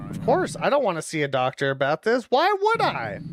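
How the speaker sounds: fast, then a high mocking why would I; mock-innocent sarcasm, pitch leaping up; sarcastic. Real, not acted. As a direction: roll your eyes at the advice. Mocking the game's advice.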